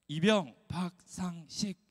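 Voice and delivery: crisp slow soldier's reply with 이병 박상식 clearly pronounced; military reply. Shown as a demonstration. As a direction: answer like a private reporting in, 식 said with a clean s. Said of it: "이렇게 대답해야 합니다".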